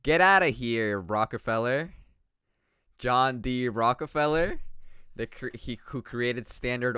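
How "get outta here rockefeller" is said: put-on light Canadian accent. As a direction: say it like a Canadian bartender. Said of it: "Why'd you say bartender with a Canadian accent?".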